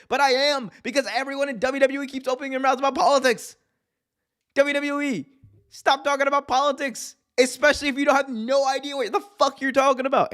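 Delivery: high-pitched, worked-up rant; indignant tirade, voice jumping way up; exasperated rant. Real, not acted. Worked-up rant at chat and WWE.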